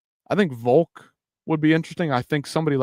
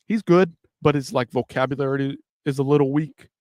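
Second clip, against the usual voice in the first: slurring words. Real, not acted. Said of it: "so I'm stumbling, fumbling, slurring my words".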